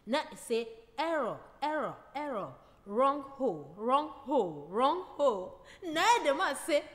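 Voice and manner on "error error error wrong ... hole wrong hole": robot voice. Acted. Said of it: "He dey speak like the robot itself".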